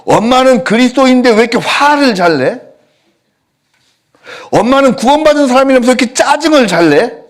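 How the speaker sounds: put-on high, piping child questioning mom; a small child innocently asking why mom gets angry; child's voice. Child asking mother why she's angry, high innocent voice.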